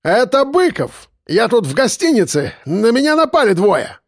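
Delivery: high, panicky shout. A narrator's reading. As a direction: yell for help down the phone. Drunk official calls for help.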